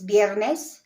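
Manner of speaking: viernes said slowly with B for V. Shown as a demonstration. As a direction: say viernes as if spelt with a B. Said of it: "It's spelled V, but it's".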